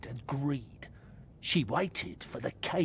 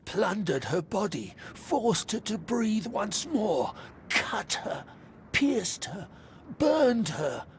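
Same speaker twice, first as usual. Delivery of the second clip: rising anger; 2 semitones higher, 3 dB louder than usual. Acted. Spirit recounts torture, demands freedom.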